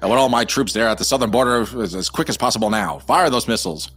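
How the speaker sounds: bad Godzilla dubbing. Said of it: "That's what he sounds like".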